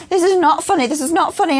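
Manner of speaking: high, loud mock insistence; high-pitched protesting. Laughing culprit insisting to partner it isn't funny, high mock-earnest protest. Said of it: "but I'm just like".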